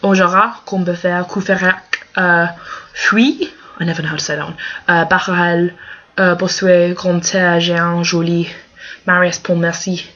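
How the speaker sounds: clumsy French names, accents sliding; switching accents clumsily. Shown as a demonstration. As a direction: attempt French pronunciation. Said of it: "read out these names".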